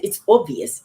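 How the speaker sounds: playful attempt at a British accent; lightly put-on British pronunciation. Shown as a demonstration. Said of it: "I'm gonna say my British accent".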